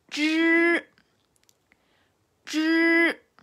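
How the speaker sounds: Zhi high and firm, tongue curled to the palate; Chinese zhi. Shown as a demonstration. Teacher repeating zhi for students. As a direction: repeat zhi cleanly twice. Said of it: "la parte delantera de tu paladar duro".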